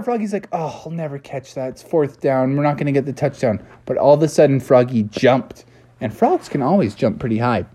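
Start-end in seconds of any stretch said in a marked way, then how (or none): 0.5-3.6 discouraged. Acted. Froggy gives up on the catch.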